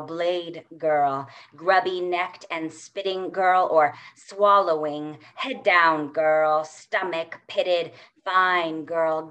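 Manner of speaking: slow, incantatory spoken word; poetry reading. Acted. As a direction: chant the list like a poem. Reads second poem.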